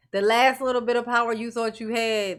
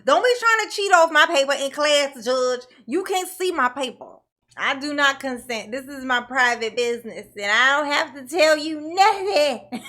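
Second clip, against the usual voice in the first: mock a sulky man refusing to show his paper; mocking Daryl; 3 semitones higher, 4 dB louder than usual. Commentator mocking Daryl defying the judge, whiny. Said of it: "He's like".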